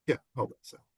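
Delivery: turned away from the microphone; turning away from phone. Real, not acted. Aside to wife mid-interview.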